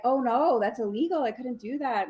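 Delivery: high-pitched mock protest; feigned reluctance. Salesman pretending to turn down the widow, feigned reluctance. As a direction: coyly refuse while inviting persuasion.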